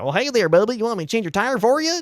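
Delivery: hey there Bubba in a hammed-up southern twang; southern tow guy. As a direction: greet him like a cheerful country roadside mechanic. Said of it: "And he's, like, super southern".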